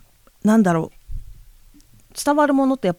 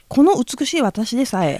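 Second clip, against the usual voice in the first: cracking up mid-line; fighting back laughter; laughing. Real, not acted. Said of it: "ほら、我慢できなくなっちゃったから。". (笑いをこらえきれずに)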